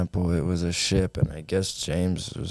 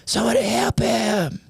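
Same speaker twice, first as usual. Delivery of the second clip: panicked cry; 6 semitones higher than usual. Acted. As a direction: cry out over the sick boy. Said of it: "they go".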